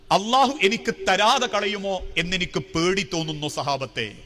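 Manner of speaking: understated anguish, sinking low at the ends; retold tearful plea. Umar confessing his fear to a companion, mild tearful anguish. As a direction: voice a weeping man's dread with restrained sorrow. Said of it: "പൊട്ടിക്കരഞ്ഞുകൊണ്ട് സഹാബത്തിനോട് പറയാ".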